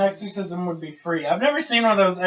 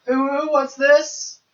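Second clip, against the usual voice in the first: high, slow cutesy coo; breathy cutesy giggly; 10 semitones higher, 7 dB louder, slower than usual. Pretend. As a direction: coo it like an excited uwu meme. Cutesy internet meme voice.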